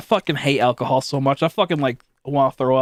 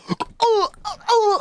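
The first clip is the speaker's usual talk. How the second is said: high, whiny mock gag after a shot; exaggerated disgusted groans; mock gagging; much slower than usual. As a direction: ham up a friend choking on vodka. Imitating friends gagging on shots.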